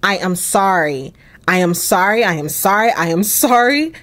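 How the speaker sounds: lightly acted insistent apology, rising at the ends; apologizing repeatedly. Husband apologizing to his wife, mildly pleading. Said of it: "He needs to be apologizing".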